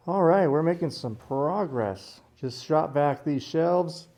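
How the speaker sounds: talking through a face mask; muffled voice behind a mask. Real, not acted. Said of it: "If I sound muffled, it's 'cause I got a mask on".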